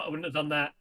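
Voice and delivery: low, quiet sulky grumble; sulky muttering. Acted. Player voices Digby carping from the back, muttering. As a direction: mutter it like a sulking child. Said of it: "He's muttering about how shit everything is".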